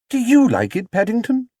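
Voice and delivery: high, bright-voiced mother asking; Missus Brown. A narrator's reading. Missus Brown asking Paddington about his coat, high and kind. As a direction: lift the voice high for a kindly lady.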